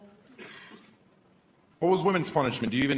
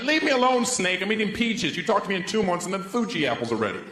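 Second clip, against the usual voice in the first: dismissive; 5 semitones higher than usual. Retold or imitated. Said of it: "I'm like".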